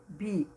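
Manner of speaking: "bilhete" split as bi, lhe, te with pauses; syllable by syllable. Shown as a demonstration. Teacher revisiting a word for pupils, "bilhete" said syllabically. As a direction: say "bilhete" one separated syllable at a time. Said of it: "com separação silábica".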